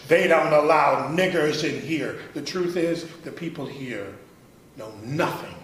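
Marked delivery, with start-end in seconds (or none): 0.1-2.2 mock bark. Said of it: "to bark out at my approach".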